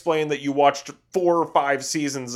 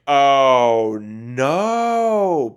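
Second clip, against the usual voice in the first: dismayed groan; 7 dB louder than usual. Retold or imitated. Groaning at Gungan talk.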